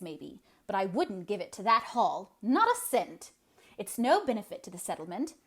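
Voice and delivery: loud, grim tirade against the hall; grim scolding. Acted. Eliza grimly railing against the new hall. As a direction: scold the young folks, loud and sour. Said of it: "said Eliza grimly".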